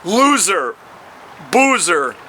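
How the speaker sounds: slow, rhythmic performance poetry; rhythmic poetry reading with punchy endings; poem reading. Acted. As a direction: lean into the rhymes like a slam poet. Performs his poem aloud.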